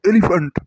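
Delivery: "এলিফ্যান্ট" pushed out heavily with a falling end; heavy, emphatic "এলিফ্যান্ট"; deep, weighty. Shown as a demonstration. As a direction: make "এলিফ্যান্ট" sound big and grave. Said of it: "গভীরভাবে উচ্চারণ করবি".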